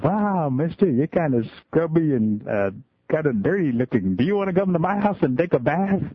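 put-on high, innocent child asking; lightly voiced curious little girl. Little girl offers man a bath.

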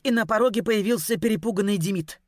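plain reading voice

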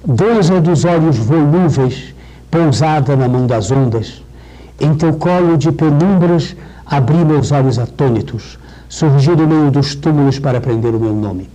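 slow, full-voiced poetry reading; poem recital. Shown as a demonstration. Professor reads Cecília's poem to the class, slow and sonorous. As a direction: recite each line and let it ring.

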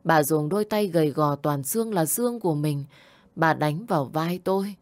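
plain reading voice

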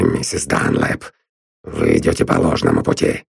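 a hint of a smug gruff man; lightly voiced sneering Drummond. A narrator's reading. Drummond gloats at Constance, lightly voiced and smug. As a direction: gloat that you found her out.

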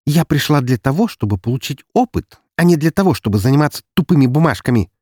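high, loud barked reply; barking retort. Acted. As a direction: bark it back at him. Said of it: "рявкнула в ответ Анастасия".

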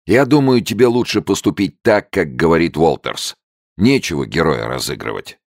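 plain reading voice

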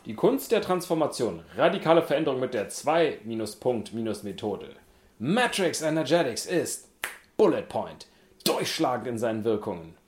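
loud, punchy ad announcer; infomercial voice. Pretend. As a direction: sell it like a TV ad. Reading blurb like an ad.

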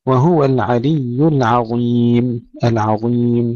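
slow recitation, العظيم with thin ع and full ظ; light ain, heavy za. Shown as a demonstration. Teacher models the verse, light ain and heavy za. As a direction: keep ع light, then thicken ظ in العظيم. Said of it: "ترقيق العين وتفخيم الظاء".

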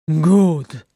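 loud, defiant single word; snarled retort. A narrator's reading. Thorin defying the warning, loud snarl. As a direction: throw it back angrily. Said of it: "Thorin snarled".

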